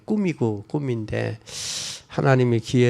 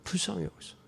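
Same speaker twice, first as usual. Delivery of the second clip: soft echo; 4 semitones higher, 15 dB quieter, much faster than usual. Retold or imitated. 간청을 조용히 되뇌며.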